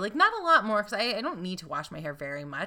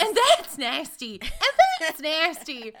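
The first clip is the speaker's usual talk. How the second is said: mock Greensboro disgust; 9 semitones higher, 6 dB louder than usual. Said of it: "She's like".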